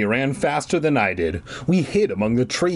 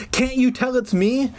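high, desperate plea; crying out; 11 semitones higher than usual. A narrator's reading. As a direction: plead with Mom, voice pitched up. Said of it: "I cried".

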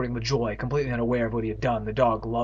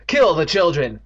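triumphant scream; 4 semitones higher, 7 dB louder than usual. Acted. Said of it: "screamed triumphantly".

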